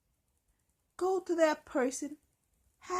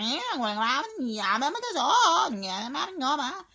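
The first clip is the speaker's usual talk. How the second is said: flustered stammer; 5 dB louder than usual. Retold or imitated. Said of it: "And you're like".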